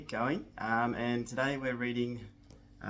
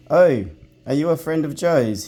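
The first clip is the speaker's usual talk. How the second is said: higher, abashed surprised question; surprised pixie; 5 semitones higher, 15 dB louder than usual. Acted. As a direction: pixie realising she is Jo's friend. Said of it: "looked surprised and a little ashamed".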